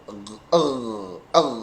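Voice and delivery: ER as a low, firmly voiced back-throat gh; strong gh. Shown as a demonstration. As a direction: hold a strong gargled gh in "er". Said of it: "huruf gho ini agak kuat". (bunyi gho agak kuat)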